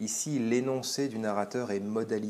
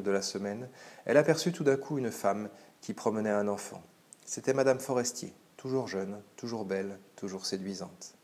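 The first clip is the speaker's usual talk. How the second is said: story narration. Acted. Teacher narrating the reunion scene, reflective. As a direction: read on, letting each phrase fall.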